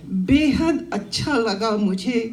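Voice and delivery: measured verse recitation with pauses between phrases; declaimed Hindi poem; poetry recital. Acted. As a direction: recite to a gathering, lifting repeated lines. Recites her own poem.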